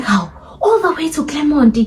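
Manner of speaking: high, breathless whispered disbelief; shocked whisper. Retold or imitated. Whispering to herself in the car, stunned. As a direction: whisper it, stunned at how far you've come. Shocked aside about being driven far.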